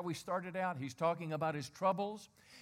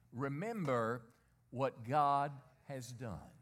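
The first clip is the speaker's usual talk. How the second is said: call and response; slower than usual. Shown as a demonstration. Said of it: "I want you to say this with me".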